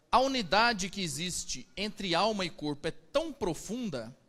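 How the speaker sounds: usual speaking voice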